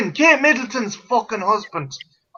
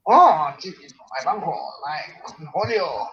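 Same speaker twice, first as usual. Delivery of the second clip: Beavis impression; 2 semitones lower than usual. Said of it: "Beavis and Butthead".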